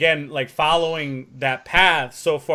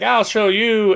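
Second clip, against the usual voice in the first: defiant retort; 8 semitones higher, 7 dB louder, slower than usual. Retold or imitated. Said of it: "he's like".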